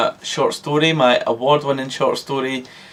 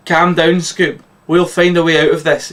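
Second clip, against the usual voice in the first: mild yell; 3 semitones higher, 3 dB louder than usual. Acted. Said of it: "yells Shaggy".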